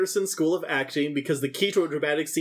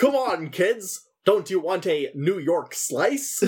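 Australian badly faking a New York American accent; mock American accent; slower than usual. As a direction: overdo a fake American accent, drawn out at the end. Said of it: "Australians doing American accents".

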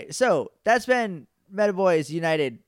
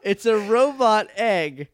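prank reveal laughing; 6 semitones higher, 4 dB louder than usual. Real, not acted.

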